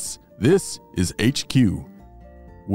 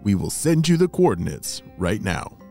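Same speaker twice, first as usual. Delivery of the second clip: put-on old crank field telephone; 4 semitones lower than usual. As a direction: lower voice through a radio. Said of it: "walkie-talkie spy beeper".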